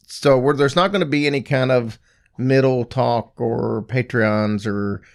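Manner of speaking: worn-out hoarse voice. Real, not acted. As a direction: talk through a shot, hoarse voice. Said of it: "my voice is kinda shot".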